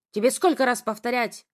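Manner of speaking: loud angry snarl; growled rebuke. A narrator's reading. Father snarls at disobedient daughter, angry. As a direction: snarl it at her. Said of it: "рыкнул он".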